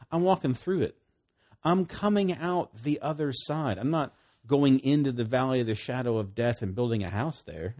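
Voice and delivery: loud, confident proclamation; bold declaration. Acted. The psalmist vowing to walk through the valley, loud and bold. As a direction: declare it like a man striding through.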